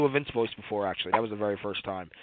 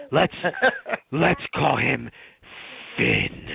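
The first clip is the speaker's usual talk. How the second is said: Vince impression; 4 semitones lower, slower than usual. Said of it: "the crackhead voice trying to be Vince".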